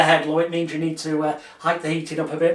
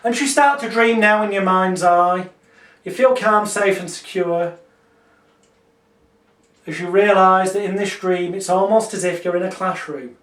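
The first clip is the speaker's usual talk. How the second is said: calm, measured hypnotist voice; hypnotic script. Shown as a demonstration. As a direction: guide the dream gently. Demonstrates classroom dream script.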